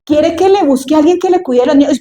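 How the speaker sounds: eager little sister. Acted. Sister offering the princess a nurse, eager. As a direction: pipe up with a helpful offer. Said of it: "la niña ... llega y le dice".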